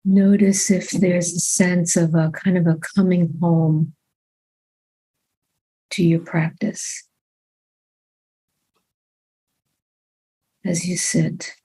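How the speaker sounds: calm, unhurried meditation guidance with long pauses; measured body-scan voice, phrase by phrase; guided meditation. Real, not acted. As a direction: guide them gently into the body, leaving long silences.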